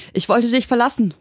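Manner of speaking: high-pitched, furious outburst; acted fury, high and tense; angry hissed retort. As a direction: spit it at him, pitched right up. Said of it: "fauchte sie".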